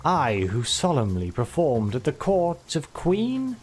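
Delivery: lightly pompous bard, slow and grand; a hint of a boastful minstrel; Wordrick the Bard. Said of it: "I love this character".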